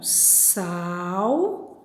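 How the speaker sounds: SAU, DÁ, VEL with long pauses; syllable by syllable. Shown as a demonstration. Teacher separates a word's syllables for the class, syllable by syllable. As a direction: break "Saudável" into three slow, drawn-out syllables. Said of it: "Quando eu vou separar as sílabas".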